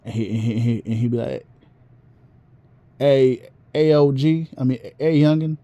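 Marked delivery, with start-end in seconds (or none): 3.0-5.6 Southern elder. Retold or imitated. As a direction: lightly imitate a Southern OG. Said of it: "he talked with a very Southern voice".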